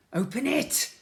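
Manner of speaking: high, loud blobby voice; Slime's voice. A narrator's reading. Slime telling Ned to open the door, high. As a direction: say it like a bouncy slime. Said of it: "said Slime".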